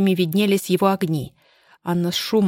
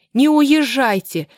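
loud, slow, high desperate cry; desperate shout; 6 semitones higher, 6 dB louder, slower than usual. Acted. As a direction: scream it out to stop the car. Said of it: "крикнула Анна". (отчаянный крик)

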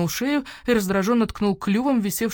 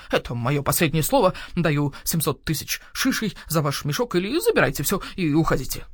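owl shopkeeper voice; 2 semitones lower than usual. Acted. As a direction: voice the grumpy owl merchant. Owl bargaining.

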